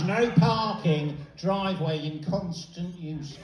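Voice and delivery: slow, pompous reading of the sign; mock stern sign. Reading the neighbour's sign in a slow pompous voice. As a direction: drag out each word like an official notice.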